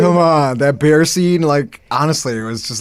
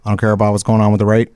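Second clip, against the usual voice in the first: Southern twang; 4 semitones lower than usual. Retold or imitated. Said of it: "this Southern twang where he's like".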